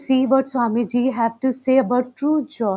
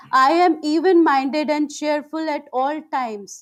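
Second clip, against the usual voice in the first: raised, measured affirmation voice; loud affirmation; 3 semitones higher than usual. Shown as a demonstration. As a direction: affirm it out loud, higher and clearly. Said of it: "first in loud voice".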